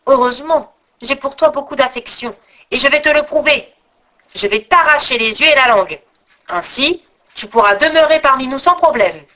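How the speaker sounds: measured, understated solemn troll king; mildly solemn address. Acted. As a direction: pronounce it like a royal decree, lightly. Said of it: "il dit d'un air solennel".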